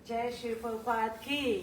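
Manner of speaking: ringing call-and-response praise; devotional acclamation. Real, not acted. Calls for congregation's response.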